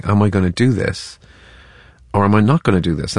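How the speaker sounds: "Am I gonna do this", long pause, "or am I not"; thinking pauses. Acted. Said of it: "this is somebody who's thinking".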